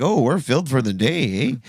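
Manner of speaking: mock Canadian accent. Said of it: "They don't say that like, like that".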